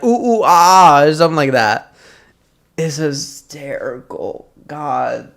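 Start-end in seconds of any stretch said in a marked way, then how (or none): 0.0-1.0 loud mock monkey hoots; monkey noises. Retelling the customer's monkey talk, mock hoots. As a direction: hoot it like the customer does. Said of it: "she's like".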